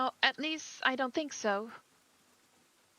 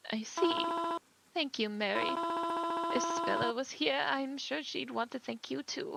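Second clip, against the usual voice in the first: higher, gentle voice of a bereaved mother; a mother startled at her daughter's funeral; grieving mother; 4 semitones higher than usual. Acted. Grieving mother greets a stranger at the funeral, gently.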